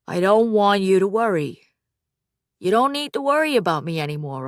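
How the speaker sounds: a touch of put-on grown-up firmness; best adult voice. Son reassuring his mother, a hint of a put-on adult voice. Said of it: "Putting on his best adult voice".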